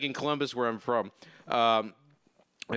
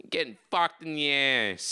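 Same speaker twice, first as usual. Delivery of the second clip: put-on Chicago accent. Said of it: "I'll be at work and going".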